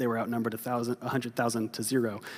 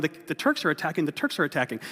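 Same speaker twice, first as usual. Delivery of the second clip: mock panicked yell; 3 semitones higher, faster than usual.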